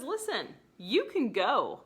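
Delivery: mock stubborn refusal to leave; defiant Kate. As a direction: dig in your heels, stubborn bride. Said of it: "And then she says".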